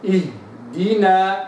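اهدنا very slow, the h given full length; recitation demo. Shown as a demonstration. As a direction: chant اهدنا with the sakin h held. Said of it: "هكذا". (تلاوة اهدنا ببطء)

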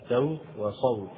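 سوت with light seen, then صوت with heavy sad; contrasting seen and sad; seen versus sad. Shown as a demonstration. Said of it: "فيجب إظهار الانفتاح في السين".

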